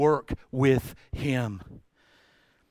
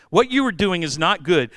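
"you" stressed, a touch louder; louder, insistent; 4 dB louder than usual. Retold or imitated. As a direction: Jethro pressing Moses, louder insistent. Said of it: "He goes".

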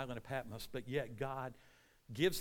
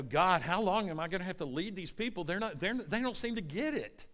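exasperated complaint; 3 semitones higher than usual. Acted. Moses to God about stiff-necked people, exasperated. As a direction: pitch climbing toward the end.

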